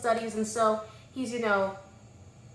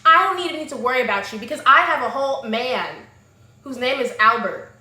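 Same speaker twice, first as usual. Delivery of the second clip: acted defiant comeback; 5 dB louder than usual. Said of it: "she's like".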